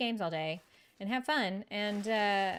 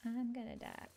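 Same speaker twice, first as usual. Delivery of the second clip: mock despair; 5 semitones lower, 12 dB quieter than usual. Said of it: "you're just like".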